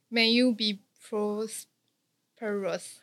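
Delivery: slow, robotic text-to-speech English; like Google lady. Shown as a demonstration. 被笑像Google小姐般，慢慢念出祝福语. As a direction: read it out like a slow voice assistant. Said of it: "他发音好像Google小姐啊".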